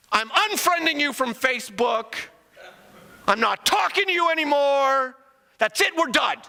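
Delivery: a hint of a sulky kid cutting a friend off; mock-pout like a twelve-year-old; petulant seventh grader. Preacher mocks God as a seventh grader, lightly sulky. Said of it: "like a seventh grader".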